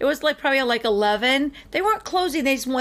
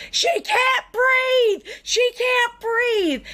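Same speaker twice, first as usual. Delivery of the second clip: panicked shouting; 12 semitones higher, much slower than usual. Retold or imitated. Friend runs inside shouting for help for a girl who can't breathe, panicked yell. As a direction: yell for help like a scared kid. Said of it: "and goes".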